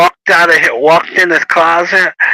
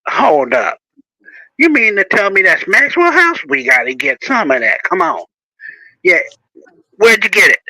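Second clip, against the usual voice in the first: playful teasing; 3 semitones higher than usual. Shown as a demonstration. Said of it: "I'd do something like this".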